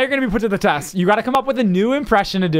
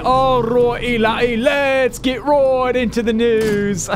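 a drawn-out news-show opener; Keemstar impression; 2 semitones higher, much slower than usual. Host prompting his friend with a mild Keemstar imitation. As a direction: stretch the catchphrase like an announcer. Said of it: "what about Keemstar?".

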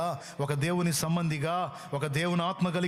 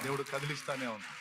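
same words again, much softer and lower; softer repeat; 3 semitones lower, 8 dB quieter than usual. Acted. Preacher to his congregation, repeating it in a fading hush. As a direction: let the repeat fade off.

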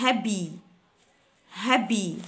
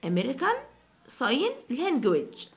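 slow model; 2 semitones higher, much slower than usual. Shown as a demonstration. Teacher repeating slowly for students. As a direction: Sign Language stretched slowly, Sign leaned on. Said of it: "teacher models the phrase".

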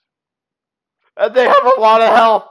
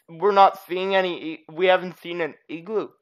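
ordinary talk, nothing marked

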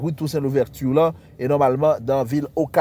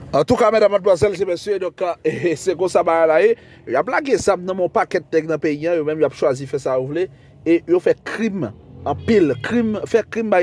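radio host announcer voice; 2 semitones higher than usual. Acted. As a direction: call out to the audience like a radio host. Host opens the live show.

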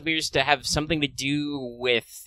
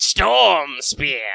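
all caps shout; 4 semitones higher, 5 dB louder than usual. Shown as a demonstration. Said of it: "write it in all caps if you want".

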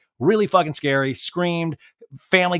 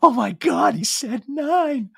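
high, slowed mock swoon; imitating a smitten fan; thrilled; 7 semitones higher, slower than usual. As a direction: gush it in a delighted falsetto. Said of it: "she's just smiling".

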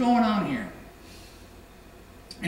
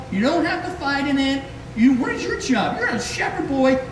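higher, scolding rant at his little brother; angry older brother; 5 semitones higher than usual. Retold or imitated. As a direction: tell him off like a fed-up big brother. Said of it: "his older brother says, like".

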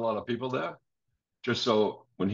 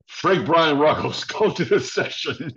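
louder, slowed, laughing burst of glee; laughing excited outburst; 5 semitones higher, 5 dB louder than usual. Retold or imitated. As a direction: mom can't contain her excitement, laughing. Mother excited at McCartney news.

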